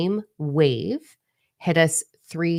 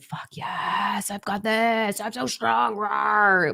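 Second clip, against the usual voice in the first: higher, hammed-up adrenaline rush voice; mock pumped-up self; 6 semitones higher, much slower than usual. Viewer imagining adrenaline moments, hammed-up pumped voice. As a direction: play the cocky fired-up version of yourself. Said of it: "these moments of adrenaline".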